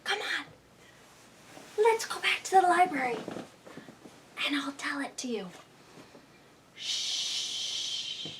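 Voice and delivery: breathless scared whisper; hush, don't wake the wolf. Acted. Spots the wolf in bed.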